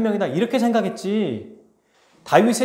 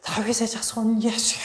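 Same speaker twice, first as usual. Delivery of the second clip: strained, high-pitched cry held back in volume; high, drawn-out imitated shout; calling out; 6 semitones higher than usual. Shown as a demonstration. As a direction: cry out over a passing crowd. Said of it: "외치는 거예요".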